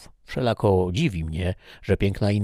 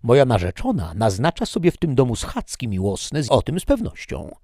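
loud, higher, indignant insistence; angry stranger; 5 semitones higher, 6 dB louder than usual. Acted. The stranger insisting to Toledo that he will get in, angrily. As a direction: demand entry like a jealous fiancé.

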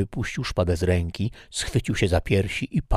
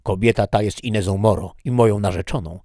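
angry stranger; 2 semitones higher, 6 dB louder than usual. Acted. Stranger shouts claim.

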